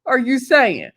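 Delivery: put-on slow, loud disbelieving Girl, what the hell; exasperated friend scolding; incredulous. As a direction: drag it out in shocked disbelief. Reacting to him in disbelief.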